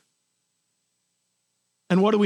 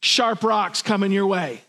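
mock blunt scolding, higher pitch; harsh truth; 3 semitones higher than usual. Pastor imitating a harsh-truth Jesus to the caught woman, blunt. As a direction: lay out her sins with no mercy, mildly mocking. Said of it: "it would have looked like this".

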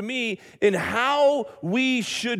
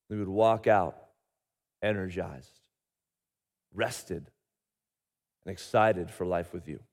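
hushed pastoral prayer; 12 semitones lower, 7 dB quieter than usual. Acted. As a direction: pray quietly and reverently. Opening prayer before sermon.

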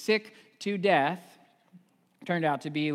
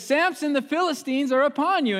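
high, loud mock warning; alarmed call; 10 semitones higher, 7 dB louder than usual. Delilah crying out to wake Samson. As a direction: call out as if danger is here.

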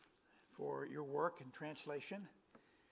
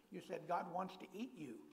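laughing through the punchline; 3 semitones higher than usual. Retold or imitated.

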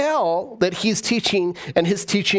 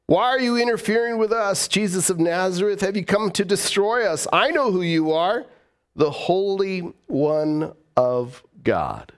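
lightly voiced possessed man crying out; demon crying out; 3 semitones higher than usual. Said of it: "cried out".

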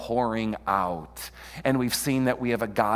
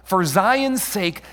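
high, slow, emphatic proclamation; speaking for God; 8 semitones higher, 5 dB louder, much slower than usual. Acted. Preacher speaking for God to the prophet Isaiah, proclaiming slowly. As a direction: declare it as God's own vow, drawn out. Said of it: "hear God saying this".

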